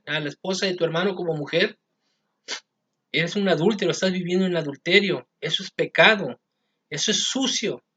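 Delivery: mock-indignant public telling-off; shouted rebuke. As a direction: berate a wrongdoer in an acted quote. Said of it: "y le grita".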